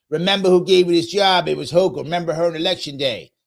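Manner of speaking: lightly voiced pushy union boss; a hint of a strong-arming boss reminding workers who hired them; stereotype boss talk. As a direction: lean on them like a party boss. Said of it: "they talk just like that".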